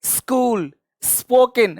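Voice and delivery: "स्कूल" and "स्पोकन" starting straight on S; no vowel before the S in "स्कूल", "स्पोकन"; clean S-cluster demo. Shown as a demonstration. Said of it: "इस तरह से". ("स्कूल", "स्पोकन" सीधे स से)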